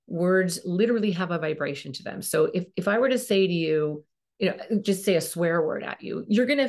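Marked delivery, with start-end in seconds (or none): none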